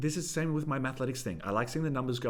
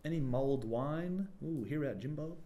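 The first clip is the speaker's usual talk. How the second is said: higher, softly nosy villager; village gossip; 3 semitones higher, 5 dB quieter than usual. Acted. Villager offers wine and spreads gossip, lightly acted. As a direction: chat over wine, then pry softly. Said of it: "they'd be talking".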